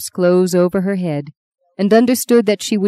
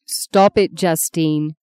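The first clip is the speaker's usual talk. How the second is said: firm motherly reproof, only mildly raised; stern; slower than usual. Acted. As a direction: cut off her self-blame firmly. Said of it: "said Maggie sternly".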